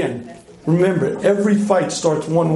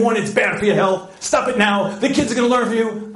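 mildly imitated scolding, pitched up; nagging wife; 4 semitones higher than usual. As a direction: lecture briskly like a nagging wife. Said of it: "Had she said".

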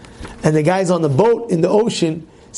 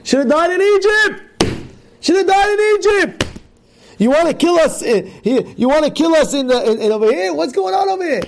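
complaining mob; 11 semitones higher than usual. Retold or imitated. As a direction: shout your complaint at the leader. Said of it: "What are the people saying?".

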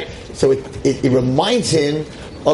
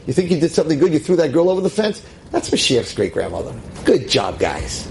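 sarcastic God voice. Pretend. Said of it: "Hashem's like".

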